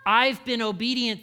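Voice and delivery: lightly played proud older brother; self-righteous. Older brother claiming his obedience, mildly smug. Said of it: "in that attitude, the older brother".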